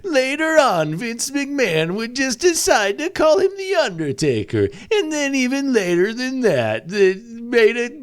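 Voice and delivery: clickbait video narrator voice; dramatic list-video narration; top ten YouTuber voice. Acted. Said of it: "is this your top ten YouTuber voice".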